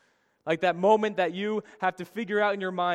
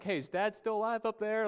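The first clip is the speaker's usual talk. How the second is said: casual paraphrase; 5 semitones higher, 4 dB quieter than usual. Retold or imitated. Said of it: "like, his first question".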